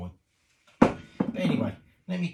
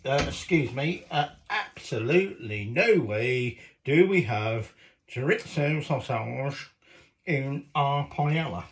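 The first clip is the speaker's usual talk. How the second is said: haughty Valencian objection; 5 dB louder, slower than usual. Retold or imitated. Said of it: "But the Valencians went".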